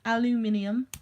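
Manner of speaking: aluminium as "al-yoo-MIN-ee-um"; five syllables in aluminium, stress on MIN; British aluminium. Shown as a demonstration. Testing which word is longer, British aluminium. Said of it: "that's more long than aluminium".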